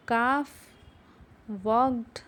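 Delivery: calf as kahf and walked as wawkt, no L; silent L. Shown as a demonstration. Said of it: "उसको ज़ोर से पढ़ेंगे".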